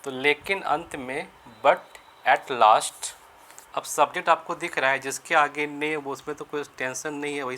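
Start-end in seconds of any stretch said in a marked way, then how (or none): 1.6-3.1 each word spaced out, very slow; slow dictation. Shown as a demonstration. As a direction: dictate it slowly so students can write. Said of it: "slow dictation for students". (धीरे-धीरे लिखवाना)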